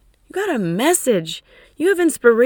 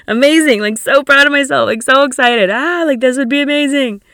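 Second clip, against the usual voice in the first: louder, thrilled rush of relief; excited gush; 5 dB louder than usual. Retold or imitated. Client imagining kite sailing, louder thrilled gush. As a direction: gush like he already did it.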